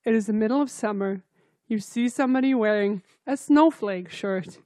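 loud, theatrical address to the listener; dramatic storyteller. Pretend. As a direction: announce it like a dramatic narrator. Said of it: "Listener, imagine this".

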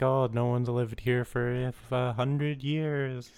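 ghost voice. Retold or imitated. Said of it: "he talks like a ghost".

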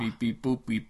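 light beep-boop robot noises; mock toy robot beeping. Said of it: "I'm a robot".

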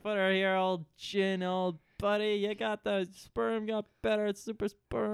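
put-on hearty fetus greeting old Jin; mock fetus. S1 voicing the fetus.

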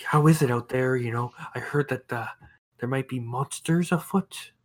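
hesitant, softly anxious cleric; a touch of hushed, nervous curiosity; lightly voiced timid bishop. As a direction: ask haltingly, like a sheltered bishop.

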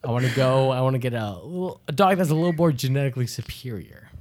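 a hint of a smug villain; subtle villain. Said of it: "the way you're talking is like a villain".

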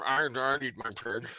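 a hint of a creepy killer; Buffalo Bill voice. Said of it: "You sound like Buffalo Bill".

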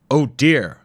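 high, loud fussy gasp of dismay; a flustered old man's cry; alarmed. Acted. Wimple sees friend trapped.

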